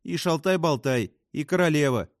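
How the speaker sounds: high-pitched, excited listing; excited cry. A narrator's reading. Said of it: "завопила Фрэнсис". (возбуждённо, высоким голосом)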